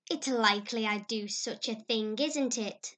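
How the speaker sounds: put-on young girl scoffing; scornful. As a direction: scoff at the idea. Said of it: "said Diana with just scorn".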